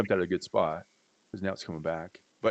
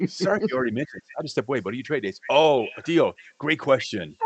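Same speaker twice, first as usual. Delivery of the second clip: quicker, higher replay of the same answer, acted up; hammed-up retake; 3 semitones higher, 5 dB louder than usual. Shown as a demonstration. Cohost redoing his answer for the listener, hammed up. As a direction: redo the line like a cheerful second take. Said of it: "this time answer the question right".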